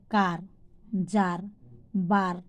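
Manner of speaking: কার, যার, বার with a long "aa". Shown as a demonstration. Teacher giving examples of A, long "aa" in কার, যার, বার. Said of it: "আ যখন হয়".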